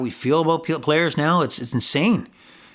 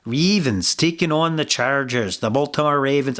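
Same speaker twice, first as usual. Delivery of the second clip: put-on playful, slight Irish accent; a hint of mock Irish on the names. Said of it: "doing it in an Irish accent".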